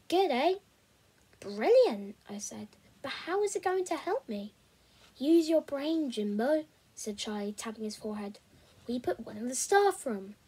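steady storytelling read; audiobook-style narration; story narration. A narrator's reading. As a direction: read the chapter aloud to listeners. Reads a novel chapter aloud.

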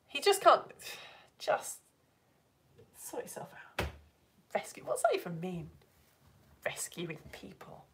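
mock grumble. Mock grumbling about husband.

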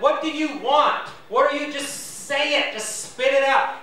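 God asking bluntly and a bit exasperated, as a lightly voiced role; impatient God. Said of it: "God's probably like".

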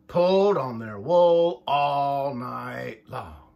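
lively picture-book read-aloud, voices for each sheep; reading to children. A narrator's reading. Parent reading a sheep story to the child, lively storytime voice. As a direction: read it like storytime for little ones.

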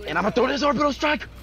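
hyped announcement. Real, not acted. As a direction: hype it up like a big reveal.

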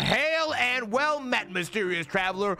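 a lightly voiced courtly host; hammed-up knight greeting; medieval greeter. Voices a fantasy LARP NPC.

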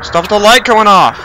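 high, drawn-out loud complaint; exasperated yell. Real, not acted. Player yelling at the game's failing lights, exasperated yell. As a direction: cry out slowly in protest.

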